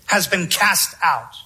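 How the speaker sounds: steady, earnest sermon delivery, pressing each phrase home; earnest preaching. Real, not acted. Preacher urging listeners to look at the cross, earnest preaching. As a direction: preach it to the congregation with conviction.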